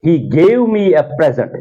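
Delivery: "present" said PREZ-ent, stress up front; slow example sentence, "present" with strong PRE; noun stress. Shown as a demonstration. Teacher showing the gift word, PREZ-ent. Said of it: "noun या adjective जो हो".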